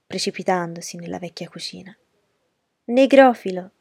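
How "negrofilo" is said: loud, higher-pitched squeal; shrieked taunt. A narrator's reading. Cousin taunting from the old kitchen, shrieked. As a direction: shriek it as a jeer. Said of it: "strillò".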